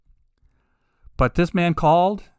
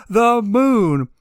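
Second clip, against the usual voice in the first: The moon, blurted high and loud in disbelief; can you believe it, loud and high; incredulous exclamation; 7 semitones higher, 5 dB louder than usual. Real, not acted. Host repeats the officer's answer, loud and incredulous.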